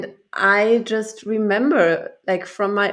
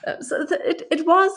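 laughing; 8 semitones higher than usual. Real, not acted. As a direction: pitch jumps high while still giggling. Laughing after shared joke.

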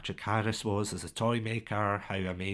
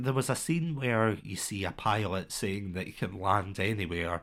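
ordinary talk

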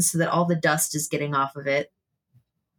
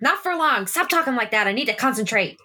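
in character as Remy; 5 semitones higher, faster than usual. Acted. Remy snapping at dying friend.

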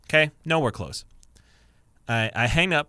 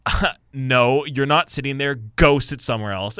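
louder, mock-stern dismissal; brusque refusal; 3 semitones higher, 6 dB louder than usual. Retelling a woman refusing someone a seat, brusque refusal. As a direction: shoo someone off a seat, imitating a rude passenger. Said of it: "the woman straight up goes".

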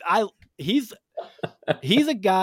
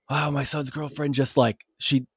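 high-pitched retold rant from a panicked dad; mock-frantic, higher-pitched venting; imitating frantic upset; 6 semitones higher than usual. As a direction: rant like a neighbor losing his mind. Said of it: "he's losing his goddamn mind".

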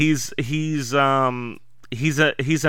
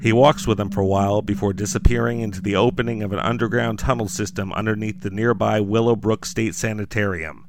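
dramatic horror story read; story narration. A narrator's reading. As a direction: narrate like a campfire horror tale. Narrates Mike Lindell's doom.

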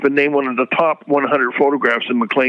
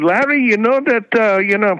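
put-on French accent; 7 semitones higher than usual. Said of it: "pardon the French accent here".

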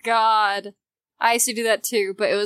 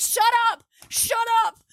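very high, loud shriek; shrill anger; 13 semitones higher, 3 dB louder than usual. Acted. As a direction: screech shut up in disgust. Mock shrieking at past self.

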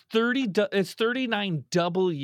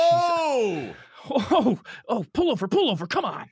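startled; 5 semitones higher, 4 dB louder, slower than usual. Acted. Horseman appears at car window.

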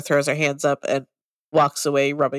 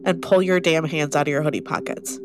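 stern demand. Acted. Demanding to see cut palms.

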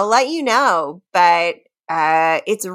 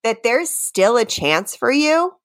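dramatic reading. Pretend. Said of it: "That sounded like a Doctor Seuss book".

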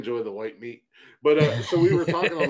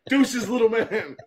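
higher, slow teasing goodbye; mocking farewell; 9 semitones higher, 3 dB louder, slower than usual. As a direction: drag it out like a smug exit. Mock goodbye while fleeing.

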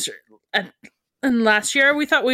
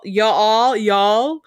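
put-on southern accent. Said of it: "I'm getting southern all of a sudden".

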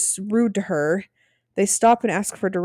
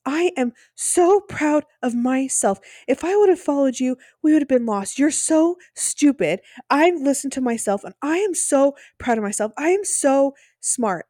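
mock boasting husband; 6 semitones higher than usual. Husband boasting to wife before other teams, smug high mock yell. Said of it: "like, screaming".

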